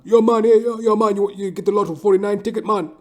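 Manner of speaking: high, loud, fast Caribbean buddy voice; hammed-up friend of the barber; barber's friends. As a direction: rattle off the lottery talk in caricature. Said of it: "his wonky little friends come".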